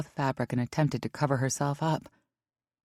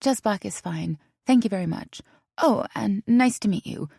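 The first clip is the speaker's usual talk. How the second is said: grateful; 6 semitones higher than usual. A narrator's reading. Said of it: "McKinley replied gratefully".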